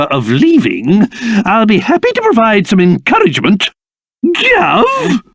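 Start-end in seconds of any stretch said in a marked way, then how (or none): 4.2-5.2 high shouted call. Acted. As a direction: call out to get his attention. Calling out to his master.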